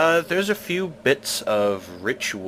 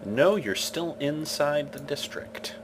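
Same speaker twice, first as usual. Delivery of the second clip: whispering; 6 semitones higher, 6 dB quieter than usual. Real, not acted. GM answers player in hushed aside.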